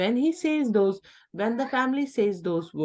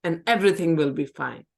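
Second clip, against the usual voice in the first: false reassurance; 4 dB louder than usual. Shown as a demonstration. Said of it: "don't reassure people".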